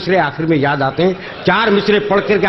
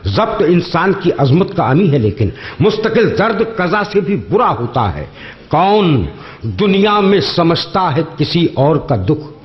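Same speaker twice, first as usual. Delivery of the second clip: measured, lingering verse delivery; poetry recitation; 2 semitones lower, slower than usual. Acted. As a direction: recite each line slowly for effect. Mushaira couplet recital.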